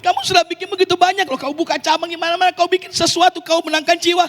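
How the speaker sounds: devil's voice. Retold or imitated. The devil tempting the pastor, a light coaxing voice. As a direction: needle him like a flattering devil. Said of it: "suara setan".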